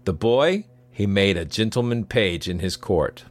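measured storyteller's read over music; story narration. A narrator's reading.

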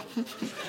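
small, soft imitated sobs; hushed pretend sniffling sobs; mock quiet sobbing. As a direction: mimic muffled little crying. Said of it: "at least your own".

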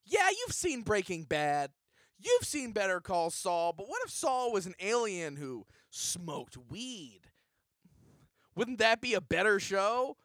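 hyped pitchman promo voice; cheesy promo announcer; ad read. Acted. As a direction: sell the show like a TV spot. Reads a comedy ad.

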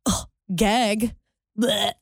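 mock gagging ugh and blech; a hammed-up retching groan of disgust; disgusted by taste. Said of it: "And I'm like".

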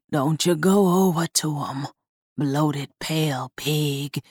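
a possessed doll growling a warning; hoarse doll voice. A narrator's reading. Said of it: "Mama Wen's hoarse voice held hints of anger".

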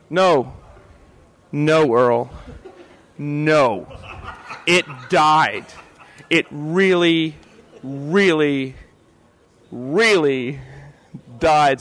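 slow, drawn-out mock solemn verdict; a lightly voiced Earl, slow and deadpan; imitating Earl. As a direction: drag each really out, heavy and grave. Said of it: "I actually did it in that voice".

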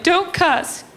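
very high mock mom voice; high-pitched imitation of mom; scolding mom. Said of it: "And she was like".

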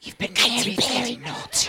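put-on soft, hushed British accent. Guest playing a scolding English ghost, British accent. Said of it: "with a British accent".

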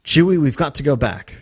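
lightly British acted plea; accidental British accent. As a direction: urge him in a slipping British accent. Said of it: "I don't know why she was British there".

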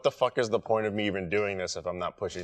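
low, subdued self-talk; inner voice. Acted. Describing the voice in his head to friends, low self-talk. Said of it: "the voice in my head is like".

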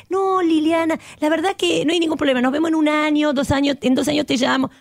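breezy pretend friendliness, rattled off fast; sugary fake-nice dismissal; fake polite brush-off. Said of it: "que me diga".

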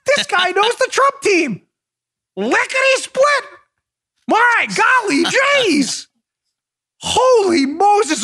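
high, slow gee-whiz sidekick voice; mock wide-eyed investigators. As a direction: play the FBI as goofy cartoon heroes gasping. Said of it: "And they're like".

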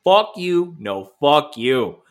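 mock-aggressive back-and-forth, punched loud; hammed-up hostile heckle; rival fans trading insults. Rival sports fans cursing each other, mock-angry.

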